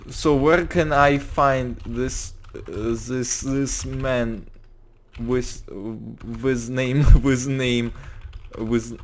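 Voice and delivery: put-on slow, halting Russian-accented English; fake Russian accent. Anton asking where to find a man, fake Russian accent. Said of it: "I'm trying to fake a Russian accent".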